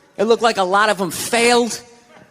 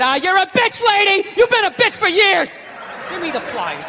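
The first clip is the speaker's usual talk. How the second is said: higher pitched mock rant at the wife; mock yelling dad; 6 semitones higher than usual. Dad ribbing his wife while fixing something, mock yell. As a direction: bark it at her like a fed-up husband.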